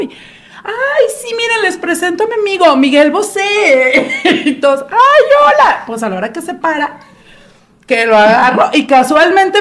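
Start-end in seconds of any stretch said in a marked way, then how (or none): 0.6-4.2 higher, gushing introduction; mock gushing. Friend introducing the star. 4.9-5.8 much higher, starstruck hello; giddy hello. Retold or imitated. Everyone greeting the star.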